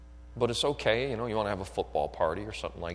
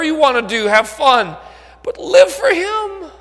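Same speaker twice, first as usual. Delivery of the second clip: high, loud pulpit shout; full-force sermon shout; shouted preaching; 16 dB louder than usual. Acted. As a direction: hammer each item out to the congregation.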